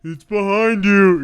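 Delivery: high, drawn-out loud call; hammed-up warning from a classic scene; mock panto warning. Audience warning an oblivious hero, high stretched call. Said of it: "the classic scene of".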